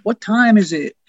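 toned-down heckler's shout; retold yell. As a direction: imitate someone calling across a room, held back. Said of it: "would yell out".

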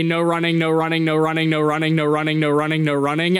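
monotone string of repeats; repetitive sign reading. Acted. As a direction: rattle it off like sign after identical sign. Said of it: "signs that just say".

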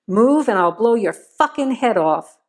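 a mild menacing growl at gunpoint. Acted. Joe threatening Vivian at gunpoint, understated growl. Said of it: "Joe growled menacingly".

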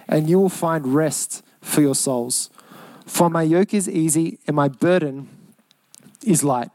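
scripture reading. Acted. Preacher reads Matthew aloud.

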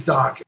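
"Daken" said like a band's name; Daken as DOCK-en. Shown as a demonstration. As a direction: say "Daken" with an open "ah". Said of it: "like the band?".

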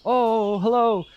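high, bright-eyed greeting dad; delighted father greeting his child home; cheerful dad. Acted. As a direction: beam a delighted hello. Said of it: "your dad will come out and".

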